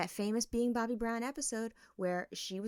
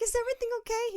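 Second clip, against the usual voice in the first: worried question; 4 dB louder, much faster than usual. Retold or imitated. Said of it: "I was like".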